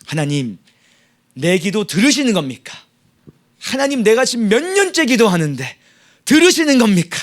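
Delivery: mild mock complaint to God, rising on 들으시는 겁니까; 따지는 말. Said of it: "주님께 따지는 겁니다". (하나님께 살짝 따지듯이)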